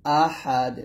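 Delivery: আহাদ with a thin, pressed final দ; teacher demo of আহাদ, pressed end. Shown as a demonstration. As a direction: squeeze the last দ of আহাদ tight and thin. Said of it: "চিকন করে চাপ দিয়ে বলতে হবে".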